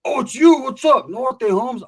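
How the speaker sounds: high, loud delighted greeting; excited recognition. Acted. Homeboy spotting his old jail buddy, high excited shout. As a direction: burst out as if suddenly recognizing a friend.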